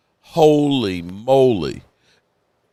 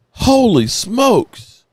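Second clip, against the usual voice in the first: awed exclamation; 8 semitones higher, much slower than usual. Real, not acted. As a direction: burst out in amazement, drawn out. Stunned by the news.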